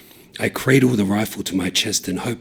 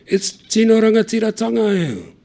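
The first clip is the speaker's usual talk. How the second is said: taking the piss; 14 semitones higher, 5 dB louder than usual. A narrator's reading. Taiho mocking the cop, cheeky and high. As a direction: stretch it out to wind up the cop. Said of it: "Taiho starts taking the piss".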